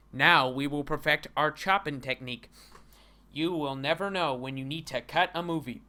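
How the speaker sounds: mock Asian-accented dojo master. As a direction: dub a martial-arts master with an Asian accent. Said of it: "I'm going to use an Asian accent".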